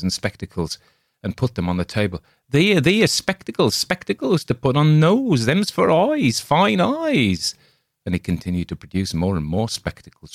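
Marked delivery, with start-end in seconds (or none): 2.5-7.5 much higher and louder hawker voice, odd timbre; cackling salesman spreading his wares; shrill creepy peddler. A narrator's reading. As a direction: grotesque peddler crowing over spectacles. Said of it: "said in a hoarse voice".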